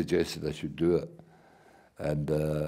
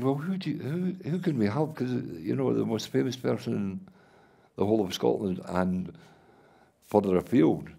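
imitating him, high and keen; mock eager pitch; 5 semitones higher than usual. Boss pitching his famous star, high and eager. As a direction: play the boss selling the idea hard. Retold boss's excited pitch for help.

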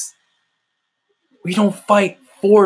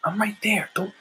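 softer, hushed comforting voice, whispering I'm right there; God calm; 4 dB quieter than usual. Retold or imitated. Preacher voicing God comforting a desperate believer, soft and hushed. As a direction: hold them close and soothe. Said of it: "God's voice is so calm sometimes".

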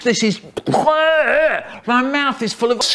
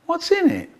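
high choppy clipped question; stitched-together question, pitched up; spliced words; 13 semitones higher, faster than usual. Acted. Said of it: "sentence mixing".

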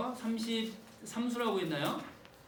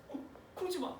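soft pleading; 8 semitones higher, 9 dB quieter, faster than usual. Acted. Imagined pleading mother.

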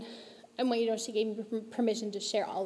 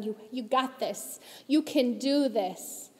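reassuring; slower than usual. Pretend. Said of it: "when we can say to them".

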